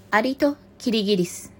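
measured, projected title announcement; storybook title read-out. Real, not acted. Reader opening the last fable, storybook title read-out. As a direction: present the title to the listeners.

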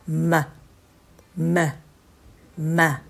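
ま starting on a hummed m, released short; M opening from closed lips. Shown as a demonstration. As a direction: hum briefly, then open the lips on each ま. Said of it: "口を開くところのま".

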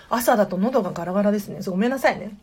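hoarse morning throat; rough, croaky voice; gravelly voice. Real, not acted.

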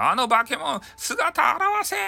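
high, drawn-out shout of pursuit; angry shout. Acted. Villagers chasing the half-visible monster, high slow yell. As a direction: yell at the monster to show itself.

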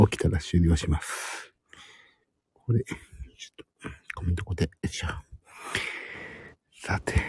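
hushed whisper throughout. Real, not acted. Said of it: "今日はひそひそ声で話しております。".

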